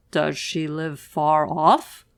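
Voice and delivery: wolf's question. Acted. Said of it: "asked the wolf".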